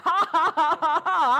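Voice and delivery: triumphant words breaking into loud, high ha-ha's; hearty put-on laugh carried through the words; imitated defiant laughter. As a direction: act out laughing off a threat. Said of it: "I'm laughing at you".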